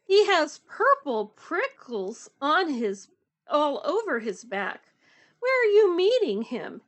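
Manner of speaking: animated storytime reading with big pitch swings; picture book read-aloud. A narrator's reading. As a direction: read it to children, stressing the rhymes. Reads picture book aloud to children.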